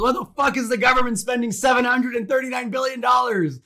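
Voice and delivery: son blowing up, half-acted shouting; mock angry yell. Son flying off the handle at dad, mock angry yell. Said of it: "the son flies off the handle and goes".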